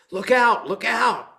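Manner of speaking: high, loud call of alarm; mock shouted warning. Mahout warning the man of the elephant, calling out loud. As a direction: yell it out as a warning.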